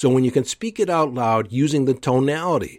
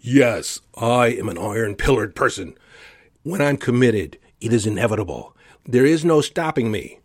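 over the top. Shown as a demonstration. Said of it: "Say it even louder, more vibrato".

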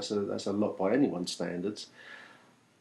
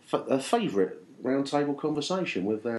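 show host intro. Acted. Host opens roundtable show.

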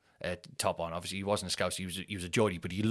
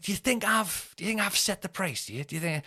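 sarcastic retort; 10 semitones higher than usual. Retold or imitated. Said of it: "And I was like".

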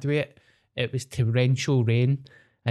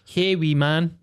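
mock Canadian-Scottish twang, pitched up; Canadian-Scottish hybrid accent; 4 semitones higher, slower than usual. Uncle back from Canada greeting a child, mock Canadian-Scottish accent. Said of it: "weird Canadian Scottish hybrid".

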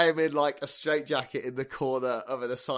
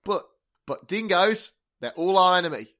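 put-on terrible Australian accent; 2 semitones higher than usual. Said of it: "the terrible Australian accents are at an end".

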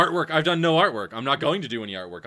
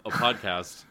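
slow, announcer-style opener; show intro voice; slower than usual. Acted. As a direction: present the show title slowly. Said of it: "you've got that show introduction voice".

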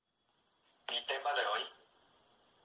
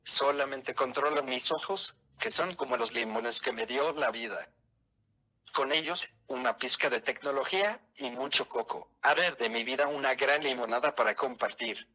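synthesized voice. Real, not acted. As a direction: computer voice with even robotic pacing. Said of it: "esta es una voz sintetizada".

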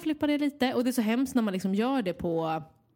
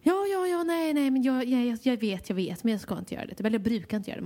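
a hint of a flustered old lady promising to behave; lightly voiced flustered old lady; 2 semitones higher than usual. Care worker mimics forgetful client promising not to do it, lightly flustered. Imitating old lady's protests.

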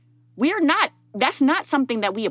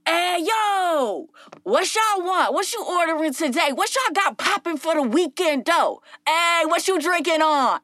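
slangy barista; 7 semitones higher than usual. Retold or imitated. White barista slangs at Black customers.

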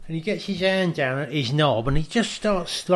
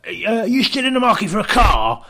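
enthusiastic Dom; 4 semitones higher than usual. Retold or imitated. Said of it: "Like that".

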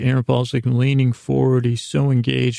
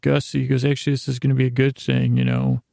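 hyped up; faster than usual. Retold or imitated. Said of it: "Jesse's all hyped up and excited".

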